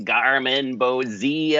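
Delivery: drawn-out quote of the strange man; light, slow mimicry of an otherworldly figure; imitated Man from the Other Place. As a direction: slowly stretch out each syllable, lightly imitating. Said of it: "the man from the other place saying".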